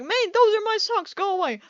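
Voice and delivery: shooing off a dream thief, half-joking; mock shooing. Shooing away the homeless man in the dream, mock loud. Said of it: "So I was like".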